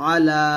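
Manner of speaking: আলা with লা held one alif long; stretched la. Shown as a demonstration. Teacher models the lengthened vowel for students. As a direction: draw out the লা in আলা. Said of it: "লাতে একটা টান হবে".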